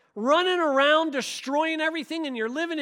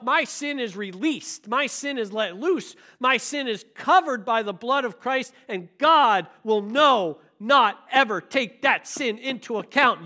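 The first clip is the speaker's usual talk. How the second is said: self-assurance; 3 semitones lower than usual. Shown as a demonstration. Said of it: "You repeat this back to yourself".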